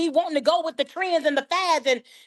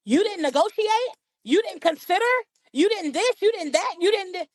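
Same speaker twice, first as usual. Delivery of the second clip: incredulous friends; 6 semitones higher than usual. Retold or imitated. Friends questioning her refusal.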